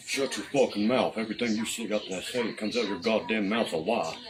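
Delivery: retold angry order. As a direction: imitate an officer telling someone off. Acting out officer's repeated angry order.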